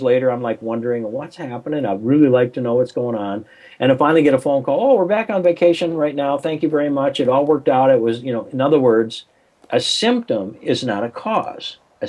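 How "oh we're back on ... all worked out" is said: relieved wife. Retold or imitated. Wife's happy call retold.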